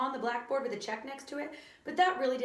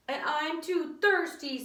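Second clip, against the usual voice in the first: put-on 1 whiny kid; 6 semitones higher, 4 dB louder, slower than usual. A narrator's reading. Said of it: "said D J".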